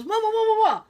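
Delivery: high, mock-panicked babble; startled awake. Imitating husband shaken from sleep, startled. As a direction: jolt awake in a rapid high flurry. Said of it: "he woke up and he goes".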